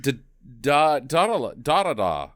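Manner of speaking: "da-da-la" said with an ah where Daedalus has its first vowel; mispronounced Daedalus. Retold or imitated. Podcaster groping for how she said the name, halting mispronunciation. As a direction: fumble "da-da-da" in stop-start syllables. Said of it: "she pronounced Daedalus wrong".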